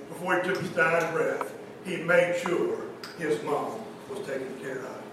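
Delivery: soft, low, tender retelling; hushed storytelling. A narrator's reading. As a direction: let it sink to almost nothing.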